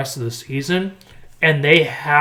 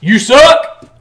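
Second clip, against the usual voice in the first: teasing jab; 8 semitones higher, 9 dB louder than usual. Acted. Ribbing Cowboys fans.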